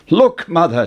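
bursting with the news; excited cry. A narrator's reading. Jack showing his mother the hen, excited cry. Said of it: "Jack cried".

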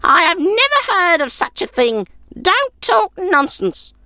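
put-on high, grudging old crone; an old woman shooing off a guest; sour old woman.

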